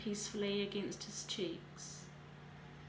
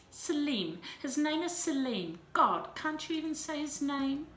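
angry insistence; 6 semitones higher, 5 dB louder than usual. A narrator's reading. Angry insistence on boy's name.

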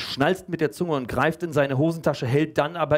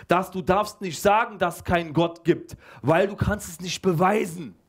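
pupil calling in; 5 semitones higher than usual. Acted. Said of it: "ruft Michel rein".

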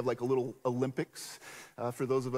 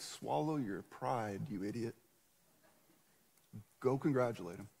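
inner scolding voice; 5 semitones lower, 7 dB quieter than usual. Retold or imitated. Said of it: "the conviction of the Holy Spirit said".

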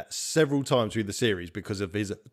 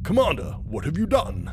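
alarmed; 7 semitones higher than usual. Acted. Character horrified at the killing.

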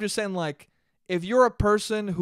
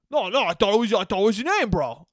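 insistent denial; 3 semitones higher, 3 dB louder than usual. Acted. Name-caller swearing he thought it was the name, insistent denial. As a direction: plead innocence, hammed up a little.

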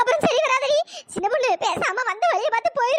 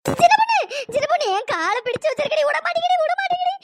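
frightened cry for help, climbing higher; panicked yelling; 3 semitones higher than usual. Acted. Woman held by the leg begs her friend, panicked yelling. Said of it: "கத்தாம இருடி".

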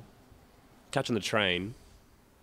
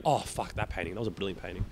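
fond recollection; 5 semitones lower, 8 dB quieter than usual. Retold or imitated. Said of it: "scroll through my phone and be like".

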